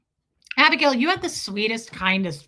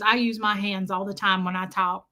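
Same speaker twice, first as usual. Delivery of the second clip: lightly voiced Southern lady; Southern accent; 3 semitones lower than usual. Woman chatting about her hands, light Southern accent. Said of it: "she goes".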